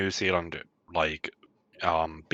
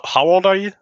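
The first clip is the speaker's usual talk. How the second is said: pitched up, incredulous question; surprised; 11 semitones higher, 5 dB louder, faster than usual. Real, not acted. Host asking the young guest her age, incredulous and pitched up.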